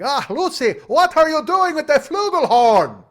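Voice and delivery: very high, loud, drawn-out Cuban-husband outburst; badly faked fiery Cuban accent, shouted at full tilt; hammed-up Ricky yell. Cuban bandleader exploding at his wife mid-show, hammed-up yelling. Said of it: "then he'd have to yell".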